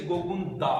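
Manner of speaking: गोगुंदा slowed, weight on the final दा; stress on last syllable. Shown as a demonstration. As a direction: draw out गोगुंदा and lean on its दा. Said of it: "दै के ऊपर बलाघात लगता है".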